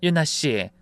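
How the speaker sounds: understated cool address; coldly spoken. Acted. Mother-in-law addressing daughter-in-law, mildly cold. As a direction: address the person with cool restraint. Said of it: "전 차갑게 말했어요".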